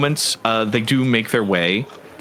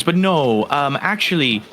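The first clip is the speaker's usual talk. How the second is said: lightly voiced satyr, a little higher and halting; polite, hesitant satyr; 4 semitones higher than usual. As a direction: explain the offer tentatively, in mild character. Game master's satyr explains the job.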